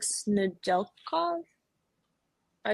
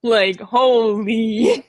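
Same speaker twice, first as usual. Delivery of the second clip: mock amazed; 3 dB louder, much slower than usual. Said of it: "I'm like".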